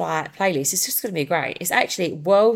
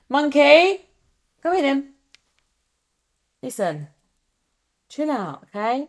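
much higher, louder sing-song dog voice; coaxing the dog; 8 semitones higher, 3 dB louder than usual. Real, not acted. Host coaxes her barking dog to come over, high pet talk.

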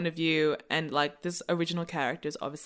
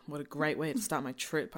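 low, soft mumble under the breath; a dejected mumble, much lower and softer; mumbled; 3 semitones lower, 7 dB quieter than usual. Shown as a demonstration. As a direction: mutter it down and quiet, to yourself. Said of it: "I mumbled".

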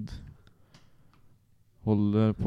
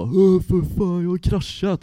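mock shocked announcing; 10 semitones higher, 7 dB louder than usual. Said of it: "Kommer in till Jocke och bara".

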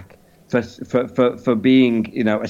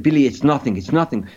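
dismissive mock-French accent; caricature French accent; faster than usual. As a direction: brush it off in a put-on French accent. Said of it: "in a caricature French accent".

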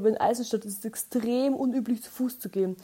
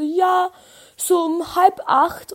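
higher, slow breathy whisper; mock whisper; 8 semitones higher, 7 dB louder, much slower than usual. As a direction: whisper the time like it's nothing. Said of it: "Und sie so".

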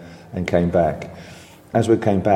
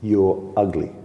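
imitating Bobby. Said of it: "his finishing line was".

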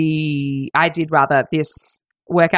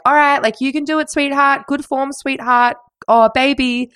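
mock pet-naming coach, pitched up; cooing husband impression; 8 semitones higher than usual. Instructor pet-naming his wife mid-workout, high mock coaching. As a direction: imitate a sickly encouraging husband, higher. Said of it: "kept calling his wife sweetheart".

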